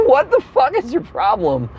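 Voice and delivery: high, incredulous outburst; high-pitched exasperation. Acted. Fed-up passenger challenging the flight attendant, high-pitched exasperation. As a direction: ask it exasperated, high in your range.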